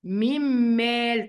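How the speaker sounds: slow "من مال الله" as mimm-maal illah; nun merged into mim. Shown as a demonstration. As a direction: hold a doubled m across "من مال الله". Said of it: "هكذا".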